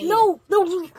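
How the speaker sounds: excited disbelief. Real, not acted. Reacts to expensive card.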